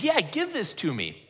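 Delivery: mildly excited. Shown as a demonstration. Woman eagerly asks Jesus for the water, mildly excited. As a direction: play her as lightly excited to get it. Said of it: "You could read this as excited, that she's excited".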